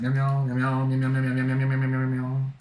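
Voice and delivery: string of quick spoken meows; half-hearted silly cat noises; playful meowing. Pretend. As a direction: chant meows that run together. Meowing for a viewer.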